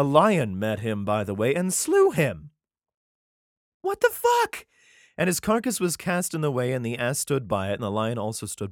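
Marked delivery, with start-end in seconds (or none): 3.8-4.7 much higher, stunned outburst; incredulous what-the-heck; shocked. Real, not acted. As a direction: blurt it in disbelief. Shocked by the lion killing.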